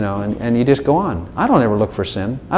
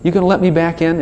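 higher-pitched, hopeful begging question; timid pleading; 7 semitones higher than usual. Acted. Sinner at God's door before church, timid pleading. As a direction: ask sheepishly to be let back, pitched up.

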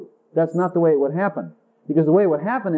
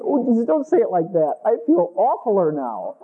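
half-laughing protest. Acted. Sinner laughingly protests Jesus' tender words, half-laughing. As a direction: laugh through the words, embarrassed.

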